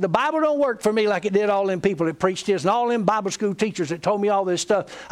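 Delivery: aggrieved complaint in one long run; retold anger. Friend complaining about his Bible school teachers, retold with mild anger. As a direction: rattle off a friend's grievance without a break. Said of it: "Another thing I'm mad about".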